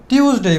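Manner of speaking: টিউসডে with a simple hard t and s, "tius-dei"; common mispronunciation. Shown as a demonstration. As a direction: say টিউসডে with an unaspirated t. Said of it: "আমরা যেটা ভুল করে থাকি". (টিউসডে, শক্ত "ট" দিয়ে প্রচলিত ভুল উচ্চারণ)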